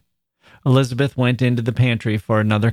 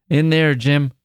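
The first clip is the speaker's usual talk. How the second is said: pit manager directing; 5 semitones higher than usual. Acted.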